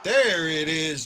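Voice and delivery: loud and drawn out, savouring the goal; slow excited shout. Real, not acted. Fan savouring the overtime winner, slow triumphant shout.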